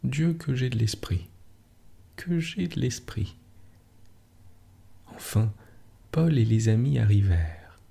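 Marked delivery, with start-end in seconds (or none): 2.2-3.4 higher and softer, savouring it; a soft, higher echo of her own boast; higher, softer repeat. A narrator's reading. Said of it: "répétait".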